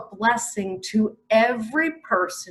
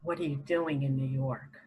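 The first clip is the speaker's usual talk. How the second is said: voicing God; 8 semitones lower, 9 dB quieter, faster than usual. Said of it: "He's saying".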